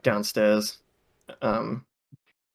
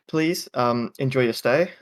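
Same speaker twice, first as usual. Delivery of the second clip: flustered hostess. Acted. Halfling woman fumbling to explain the call bell to guests. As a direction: fumble for the word, then recover. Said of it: "she says".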